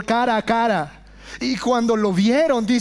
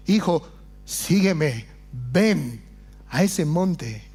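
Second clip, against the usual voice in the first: tender call; 5 semitones lower, slower than usual. Acted. Preacher voicing the Lord inviting his son, tender. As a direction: call him like a loving father.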